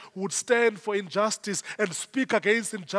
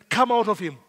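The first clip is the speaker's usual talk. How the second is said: firm order, no pleading; stern, deliberate dismissal; commanding. Retold or imitated. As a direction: command it out with authority. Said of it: "Jesus does not beg the devil".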